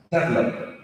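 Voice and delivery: "develop" mispronounced with the stress moved to the first syllable; mispronounced, American accent. Shown as a demonstration. Coach showing a native speaker's mistake, "develop" wrongly stressed as DEV-elop. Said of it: "That is incorrect, even though the accent".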